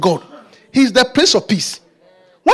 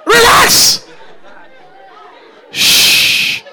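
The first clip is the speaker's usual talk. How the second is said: put-on child's voice; 10 semitones higher, much slower than usual. Preacher mimics child's plea to parents.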